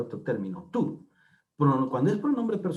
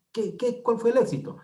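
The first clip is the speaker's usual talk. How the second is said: curioso sorprendido; 10 semitones higher than usual. Acted. Amigo pregunta por el éxito.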